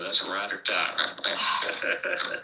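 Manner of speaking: hammy country redneck imitation; redneck accent. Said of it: "Jack is in his redneck accent".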